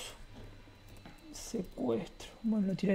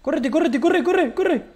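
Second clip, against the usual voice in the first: urgent shouting; 6 semitones higher than usual. Acted. Fleeing, shouting to run.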